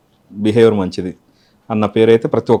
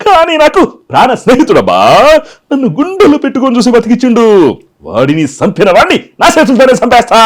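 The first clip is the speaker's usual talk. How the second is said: Jayaprakash Reddy impression; 9 semitones higher, 7 dB louder than usual. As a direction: belt it out like a theatrical film villain. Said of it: "ఈ డైలాగ్ని JP గారు".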